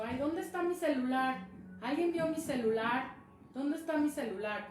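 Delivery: hammed-up fretting; mild mock panic. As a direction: act out hunting for something lost. Acts searching for phone in hand.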